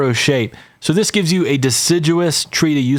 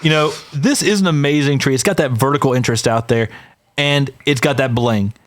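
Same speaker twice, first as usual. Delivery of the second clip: imitating Matt. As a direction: ham up the sales pitch a little, slowing on the last line. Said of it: "as Matt likes to say".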